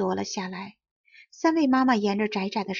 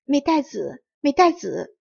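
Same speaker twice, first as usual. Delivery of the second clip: higher, louder call, rising on the second; calling the name; 5 semitones higher, 5 dB louder than usual. A narrator's reading. Innkeeper's wife running to the rabbits, calling her daughter loudly. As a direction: cry out to her daughter, desperate. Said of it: "她叫道".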